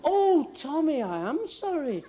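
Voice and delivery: high "oh" sliding into slow condolence; mock sympathy. Friend learns Tommy won't make it, exaggerated sympathy. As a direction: overplay feeling sorry for him.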